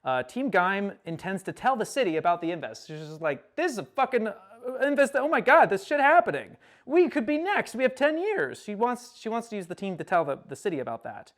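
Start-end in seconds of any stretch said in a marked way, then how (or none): 3.5-8.6 high-pitched alarmed outburst; raised, urgent mock alarm; retold panic. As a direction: act out someone freaking out. Retold alarm at the Inves news.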